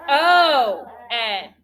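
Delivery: slow, even letter-by-letter spelling; spelled letter by letter. Shown as a demonstration. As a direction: call out each letter slowly for the class to join. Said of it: "Let's spell lemon".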